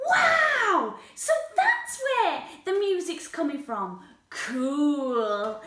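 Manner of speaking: lightly voiced eager dinosaur; friendly young dinosaur. Spike hears singing down the street, lightly voiced eager dinosaur.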